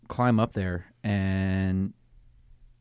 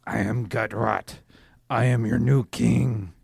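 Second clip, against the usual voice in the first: a loud proclaiming new-king voice; booming arrogant alien overlord; 6 dB louder than usual. Acted. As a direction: declare it like a self-made ruler. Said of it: "make a deception check".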